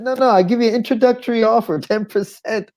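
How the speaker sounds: fast, high-pitched sales patter; insistent hustler. Retold or imitated. Prostitute pitching a discount to reluctant man, quick high insistence. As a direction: imitate a street hustler rushing the offer.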